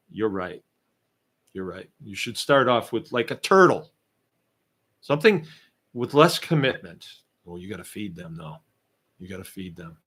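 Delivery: dry, mock-agreeing sarcasm; sarcastic. Real, not acted. Host mocking the viewer's worry with sarcasm. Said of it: "I'm being sarcastic".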